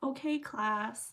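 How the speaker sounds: mock teacher voice. Mock teacher after biology class.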